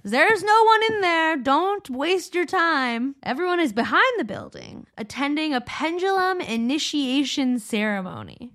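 high, put-on old-Einstein call. Einstein tells Wang not to waste his time, high calling voice.

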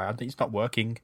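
blocked nose, slightly out of breath. Real, not acted. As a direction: breathe hard through the mouth, nose blocked. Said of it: "I'm sorry for sounding out of breath".

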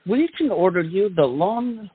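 pitchy late night TV ad voice; infomercial announcer. Acted. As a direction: sell it like a cheesy TV ad.

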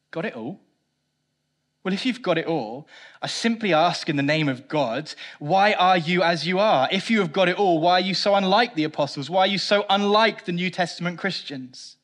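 put-on loud challenging preacher, no Welsh accent; lightly voiced fiery preacher; Martin Lloyd-Jones. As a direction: press the question hard, indignant. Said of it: "in typical Martin Lloyd-Jones, says this".

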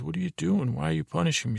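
retold pleading to make her feel guilty; guilt-tripping. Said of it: "Walt tries to guilt her".

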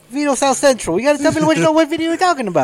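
high mock Italian-American mobster accent; exaggerated Italian-American wise guy; Italian-American capo. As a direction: press the question like a hammy capo. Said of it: "a bunch of Italian capos".

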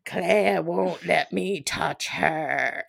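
light British ghost voice, slow at the end; a hint of a nineteenth century ghost. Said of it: "do Cam as British nineteenth century ghost".

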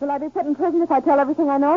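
panicky, high and pleading; scared to be put in prison; frightened plea. Acted.

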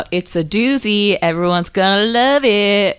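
hyped-up promo pitch; hype voice. Pretend. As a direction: sell it like a hype man. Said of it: "that's my hype voice".

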